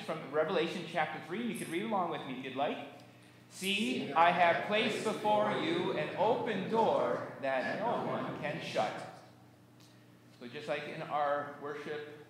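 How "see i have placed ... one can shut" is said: slow, measured Bible reading; scripture reading. Acted. Pastor reading Revelation to the congregation, slow and measured. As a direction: read the verse out deliberately. Reads Bible verse aloud.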